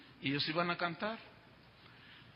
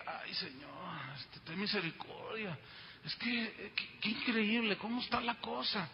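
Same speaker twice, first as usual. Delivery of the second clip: hushed shocked prayer; 6 dB quieter than usual. Retold or imitated. Shocked pastor prays under breath.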